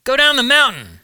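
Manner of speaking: God urgently commanding Moses. A narrator's reading. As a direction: call it down from the mountain, urgent. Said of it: "told Moses".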